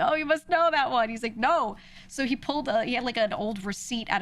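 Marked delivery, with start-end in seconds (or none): 0.0-1.1 high, loud condescending lilt; imitating a dismissive teacher; mock patronizing teacher. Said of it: "she was like". 1.4-1.8 loud, higher mock refusal; imitating an annoyed father; pissed-off dad. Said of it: "he was getting pissed".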